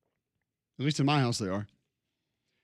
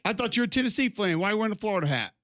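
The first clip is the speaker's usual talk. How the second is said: put-on higher Southern-accented heckle; mock Southern fan; 6 semitones higher, faster than usual. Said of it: "your Minneapolis voice was Southern accent".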